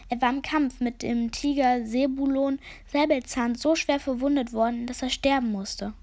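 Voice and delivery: lightly voiced grave raven lamenting; solemn raven. Raven Habakuk mourns the sultan.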